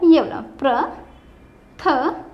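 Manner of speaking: पृथक drawn out slowly after ये वाला; पृथक slow and deliberate; slow pointed pronunciation. Shown as a demonstration. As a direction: stretch पृथक to show the right र. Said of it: "कौन सा वाला रा होता है?".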